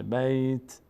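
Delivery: بیت held level, ending on a bare t; vowelless final t. Shown as a demonstration. Teacher repeats the stop for learners, vowelless final t. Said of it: "اینجوری نشه".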